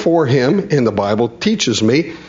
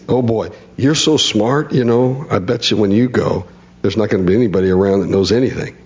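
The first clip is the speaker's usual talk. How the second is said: sarcastic; 2 semitones lower than usual. Retold or imitated. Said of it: "You can hear Job's tone".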